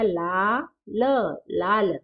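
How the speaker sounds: ल, then लाल, drawn out slowly; slow letter-by-letter teaching; sounded out slowly. Shown as a demonstration. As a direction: spell it out for the class. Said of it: "sounding out letters to teach".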